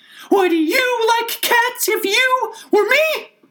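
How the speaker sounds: very high, shrill, impassioned mouse cry. Narrator reading the mouse's reply to Alice, in a shrill, passionate voice. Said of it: "cried the mouse in a shrill, passionate voice".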